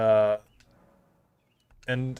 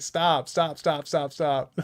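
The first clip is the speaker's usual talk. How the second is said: rapid-fire pleading, pitched up; frantic protest; 4 semitones higher, much slower than usual. Retold or imitated. Coworkers cutting off an oversharer, frantic protest. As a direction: beg them to stop, half laughing.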